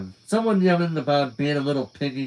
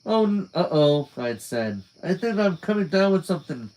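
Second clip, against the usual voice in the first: mock sick; 5 semitones higher than usual. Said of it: "I gave a fake sneeze".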